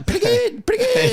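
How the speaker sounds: damn with faint praise; mock lukewarm praise.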